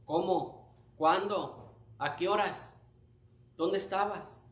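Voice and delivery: soft, hushed amazement; awed congregation. Acted. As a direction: play listeners quietly marvelling at a testimony. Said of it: "Y ustedes".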